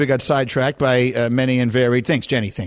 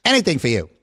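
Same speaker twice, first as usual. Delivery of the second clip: quoting Russo. Retold or imitated. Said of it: "and I quote".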